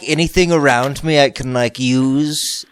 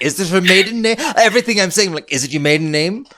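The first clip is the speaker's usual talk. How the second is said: eager interviewer; 5 semitones higher than usual. Acted. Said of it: "writing down nonsensical notes".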